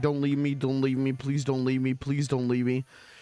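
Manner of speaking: mock crying, fake sobbing. Acting out a made-up scene where someone threatens to leave: mock crying while pleading. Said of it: "I start crying and I start saying".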